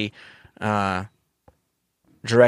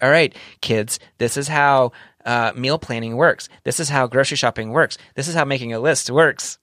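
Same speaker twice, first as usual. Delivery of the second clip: lightly voiced instructive mom; a hint of a mom teaching kids, lilting line endings; mom explaining; 2 semitones higher than usual. Host imitates co-host teaching kids, lightly mom-like. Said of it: "put your mom hat on and be like".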